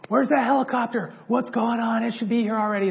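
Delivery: high, loud impatient demand; a sergeant yelling for the late helicopter; mad sergeant. Retold or imitated. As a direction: pace and fume at the delay. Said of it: "so mad".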